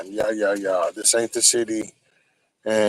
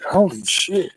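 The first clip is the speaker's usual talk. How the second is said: whispered; 8 semitones higher than usual. Real, not acted. Startled at what he sees.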